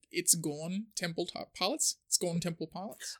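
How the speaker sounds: put-on rough London accent, dropping the S. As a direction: say it like a cockney lad. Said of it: "saying with a, like, a lower class accent".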